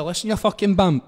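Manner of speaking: lightly acted telling-off; retold angry challenge. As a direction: have a go at someone, half in fun. Retold quarrel over kicked bag.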